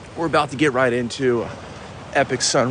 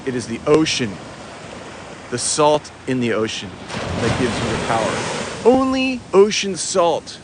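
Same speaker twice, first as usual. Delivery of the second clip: ocean guru preaching. Pretend. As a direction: preach it grandly, stretching key words and pausing for weight. Sermon on the ocean's power.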